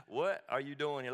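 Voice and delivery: dry, sarcastic question. Shown as a demonstration. Preacher voicing God with sarcasm. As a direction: ask it with a little sarcasm. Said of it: "A little sarcasm".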